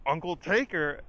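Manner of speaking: imitated exaggerated shout; exaggerated mock holler. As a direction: call it out, hamming it up a bit. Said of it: "in such an exaggerated tone".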